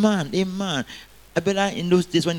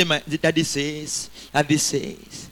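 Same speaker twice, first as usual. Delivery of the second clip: put-on childlike fond tone; 4 dB quieter, slower than usual. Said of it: "anybody say".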